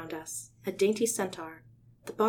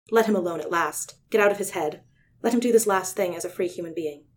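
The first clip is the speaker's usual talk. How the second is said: firm command; 5 dB louder than usual. Acted. Commanding the Yerk to leave.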